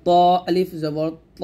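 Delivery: heavy rounded ত, held long; thick, full letter. Shown as a demonstration. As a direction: fill the mouth and stretch ত. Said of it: "মোটো হবে".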